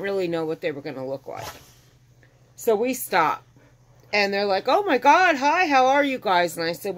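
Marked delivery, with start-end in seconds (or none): 4.7-6.6 excited greeting. Retold or imitated. Neighbor greeting them at the door.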